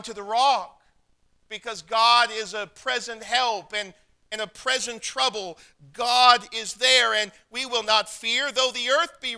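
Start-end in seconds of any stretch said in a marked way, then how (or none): none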